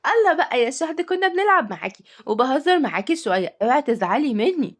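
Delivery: lightly wheedling apology; pleading child. Acted. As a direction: plead like a child caught teasing. Child pleads not to be upset.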